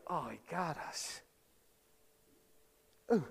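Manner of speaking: quiet, sheepish mock aside; mock muttering. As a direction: mutter it like a caught Pharisee. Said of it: "They're like".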